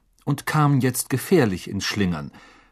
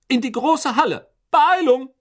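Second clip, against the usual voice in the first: high, loud hurrying order; commanding shout; 14 semitones higher, 6 dB louder than usual. A narrator's reading. Professor sends students into the great hall, shouting briskly. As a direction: call out over a crowd to get moving. Professor hurries the soaked crowd along.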